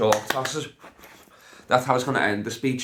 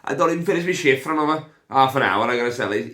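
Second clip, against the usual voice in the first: mock barmaid; 6 semitones higher, 7 dB louder than usual. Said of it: "this woman's like".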